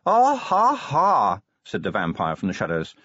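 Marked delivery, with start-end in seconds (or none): 0.0-1.4 sarcastic laugh. A narrator's reading. Vampire mocks the joke.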